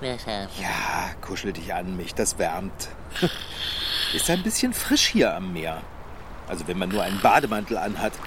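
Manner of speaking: sleepy murmur. Acted. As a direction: mumble as if half asleep. Schläfrig, kuschelt sich an. (schläfriges, leises Murmeln)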